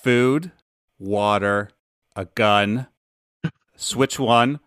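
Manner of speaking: item by item with pauses; deadpan list. Retold or imitated. Dad quotes a kid's survival list, measured and paused. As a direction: leave a beat after each item.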